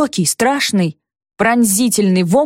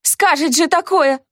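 higher, indignant retort; 7 semitones higher than usual. A narrator's reading. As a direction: bristle back at the accusation. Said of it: "возмутилась я".

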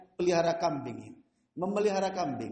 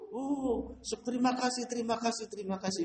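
squeaky grateful rat; 4 semitones higher than usual. Retold or imitated. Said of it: "bunyi terus itu".

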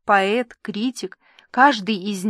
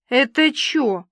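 gasping in surprise; 4 semitones higher, slower than usual. Acted. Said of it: "ахнула Клосс".

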